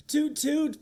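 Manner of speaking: high piping toot; piping car toot. Acted. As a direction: pipe it like a car horn. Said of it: "piped the cars".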